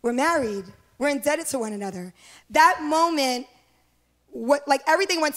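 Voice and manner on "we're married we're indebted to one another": softly marveling at being married; a quiet, moved whisper of wonder; hushed, tender. Retold or imitated. Bride to pastor, alone after the wedding, softly awed. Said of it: "And we just said".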